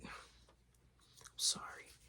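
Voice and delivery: very slow, barely voiced sorry; whispered apology. Son apologizes at night.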